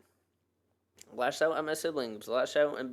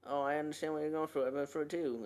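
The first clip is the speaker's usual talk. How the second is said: mocking; 4 semitones higher, faster than usual. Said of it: "I also hate when people say".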